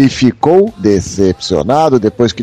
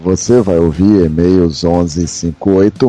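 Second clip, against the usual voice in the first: low, slow late night radio voice; deep radio host on the night shift; 5 semitones lower than usual. Acted. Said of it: "essa voz de locutor da madrugada".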